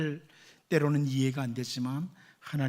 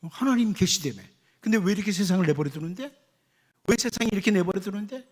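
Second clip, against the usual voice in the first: indignant complaint; faster than usual. Retold or imitated. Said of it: "가끔 사람들 그러잖아요".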